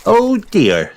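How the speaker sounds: put-on high little-girl dismay; dismayed piglet. A narrator's reading. Peppa seeing Daddy's splashed glasses, dismayed. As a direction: exclaim it high like a child.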